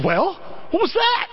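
high-pitched mock-indignant wife; demanding wife. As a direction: imitate a wife demanding an explanation. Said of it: "I get in, she goes".

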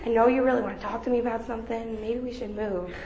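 retold whisper, softly; mock whisper. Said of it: "I kinda whisper".

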